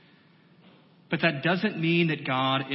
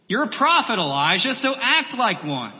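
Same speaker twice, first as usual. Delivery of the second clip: higher, louder rousing charge to a prophet; emphatic exhortation; 5 semitones higher, 4 dB louder than usual. Acted. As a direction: urge him firmly back to his calling. Voicing God's charge to Elijah.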